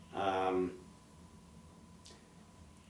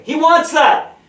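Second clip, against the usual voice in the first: much higher, screamed loud; mock shouted report; 14 dB louder, slower than usual. Sibling yelling to mom that he wants ketchup, screamed high. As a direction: scream it like telling the whole house.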